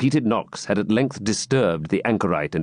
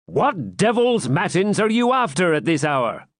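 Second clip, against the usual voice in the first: gruff voice from outside; 8 semitones higher than usual. Acted. Voice calling from outside.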